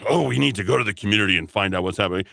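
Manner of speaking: quick, breezy mocking quote; mock community talk. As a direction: rattle it off like a smug do-gooder.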